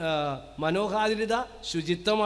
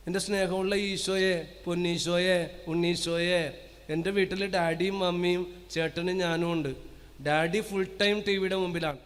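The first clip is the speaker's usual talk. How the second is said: put-on child's letter read; 3 semitones lower than usual. Reading the child's letter aloud.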